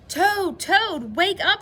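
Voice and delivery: high, loud urgent call; calling to wake. A narrator's reading. Frog waking Toad from his nap, calling out. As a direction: call out excitedly to rouse a sleeper.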